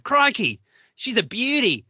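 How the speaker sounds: high, loud put-on Australian catchphrase; Australian accent. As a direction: exclaim like an excited Australian croc hunter. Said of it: "do my Australian accent".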